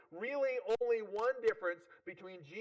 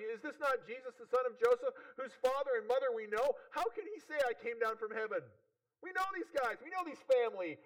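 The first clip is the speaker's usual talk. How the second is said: higher-pitched, disbelieving acted questioning; incredulous townspeople; 5 semitones higher than usual. Jews of Capernaum struggling with Jesus' claims, incredulous. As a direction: voice puzzled locals who doubt the claim. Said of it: "they're struggling with Jesus' claims".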